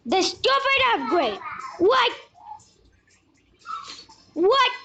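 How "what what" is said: surprised. Real, not acted. Upgrade appears again.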